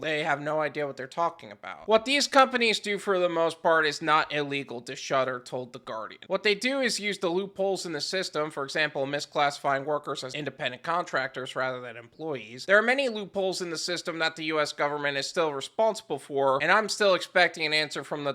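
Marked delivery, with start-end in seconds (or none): 1.9-12.7 even, low-key reading of a report; article read-aloud. Real, not acted. Host quoting a news article to viewers, measured reading. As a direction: read it out, sinking low at the end.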